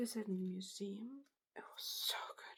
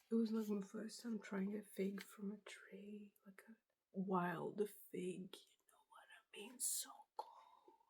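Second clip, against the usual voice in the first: ASMR whisper. Real, not acted. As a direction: breathe the words out gently.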